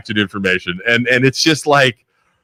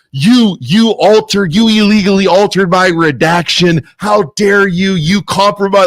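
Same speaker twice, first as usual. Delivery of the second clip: mock angry snap; 4 semitones higher, slower than usual. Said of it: "freaking snaps in this email".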